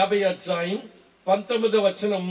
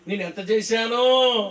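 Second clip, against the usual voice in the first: mock boasting; slower than usual. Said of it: "చెప్పుకునే కబుర్లు కబురు బండం అంత".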